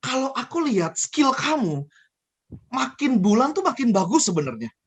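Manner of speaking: measured, lightly acted praise; encouraging manager. Manager honestly praising Rahel's skill, acted encouraging. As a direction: build up the employee with unhurried praise. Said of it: "akan berbeda ketika si manajer ngomong".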